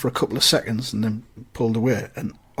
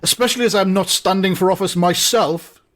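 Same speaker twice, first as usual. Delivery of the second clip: a hint of pompous official, slightly raised; lightly voiced alderman; 4 semitones higher than usual. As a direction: lightly act a superior civic dignitary. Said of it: "And the alderman says".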